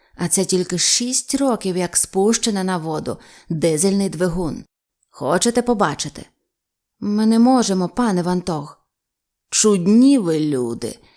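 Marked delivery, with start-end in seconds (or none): 9.5-11.0 words breathed out, sighing. Reading a novel, the captain answers men who refused him: sighing. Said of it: "зітхнув".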